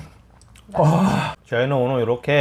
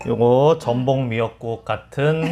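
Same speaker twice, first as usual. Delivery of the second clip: laughing. Real, not acted. Laughing at how soup looks.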